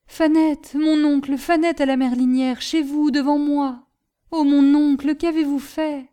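distraught outburst, high and forceful; agitated reproach. A narrator's reading. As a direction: confront an uncle in shocked agitation. Shaken nephew confronts his uncle.

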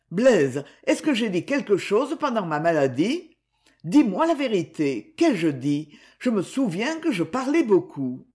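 lightly voiced frightened son, pressing for the truth; anxious sick boy.

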